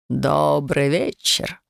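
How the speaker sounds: slow, velvety greeting; unhurried and alluring; seductive voice. Acted. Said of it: "невозможно шикарным и сексуальным голосом". (медленно, бархатно, соблазнительно)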